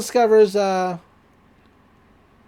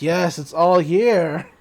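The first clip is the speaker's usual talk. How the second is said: slow gloating; 2 semitones lower, 4 dB louder, slower than usual. Retold or imitated. Old man gloats over the book.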